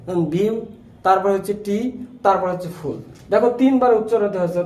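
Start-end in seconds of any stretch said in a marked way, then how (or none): 0.3-0.5 "বিউ" set apart as the first syllable; "বিউ" as a separate teaching syllable. Shown as a demonstration. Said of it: "এটা অন্তত তিনবারে উচ্চারিত হবে". 1.7-1.8 "টি" set apart as the middle syllable; "টি" as a separate teaching syllable. Shown as a demonstration. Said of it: "এটা অন্তত তিনবারে উচ্চারিত হবে". 2.8-3.0 "ফুল" set apart as the last syllable; "ফুল" as a separate teaching syllable. Shown as a demonstration. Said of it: "এটা অন্তত তিনবারে উচ্চারিত হবে".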